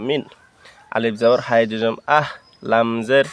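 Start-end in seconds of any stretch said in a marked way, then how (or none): 0.1-0.2 "মিন" ending in a clear dental n; tongue to the teeth for the n of "মিন". Shown as a demonstration. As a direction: clean n, no ং, on "মিন". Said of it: "দন্তান্ন".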